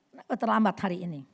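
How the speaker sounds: fast, curt repeat; nagging tone. Shown as a demonstration. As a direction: demand again, impatient. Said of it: "Ini nada yang nggak bagus".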